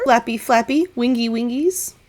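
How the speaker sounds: sing-song vain bird voice; preening raven. Acted. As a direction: flutter and admire yourself.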